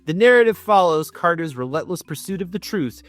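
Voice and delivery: measured storybook reading over music; gentle audiobook narration; story narration. Acted. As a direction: read it like the back of a novel. Reads the thriller blurb.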